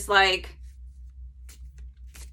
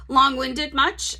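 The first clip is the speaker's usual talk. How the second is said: self-mocking aside; 4 semitones higher, slower than usual. Real, not acted. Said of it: "I answered that in my long blah, blah, blah".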